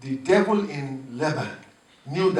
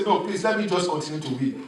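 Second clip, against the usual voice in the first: laughing reply; faster than usual. Acted. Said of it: "He say".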